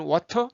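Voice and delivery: 워터 with a hard, puffed T; aspirated T in the middle of 워터; breathy T release. Shown as a demonstration. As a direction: say 워터 with a strong burst of air on the T. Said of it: "침이 튈 정도로 호흡이 많이 나갑니다".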